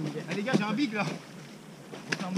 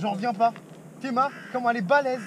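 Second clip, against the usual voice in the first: amazed; 3 semitones higher, 6 dB louder than usual. Real, not acted. Amazed at huge catch.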